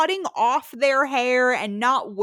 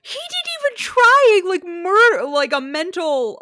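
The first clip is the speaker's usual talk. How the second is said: high, loud laughing rant; 8 semitones higher, 7 dB louder than usual. Real, not acted. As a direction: laugh through the words.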